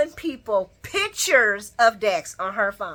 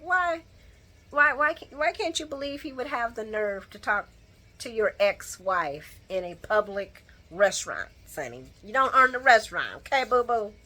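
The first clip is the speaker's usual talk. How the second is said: sassy comeback. Retold or imitated. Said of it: "And I'm like".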